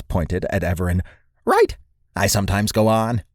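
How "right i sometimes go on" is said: high, squeaky squirrel creature; high-pitched voice. Acted. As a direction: pipe up in a small creature's high voice. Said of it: "in a high-pitched voice".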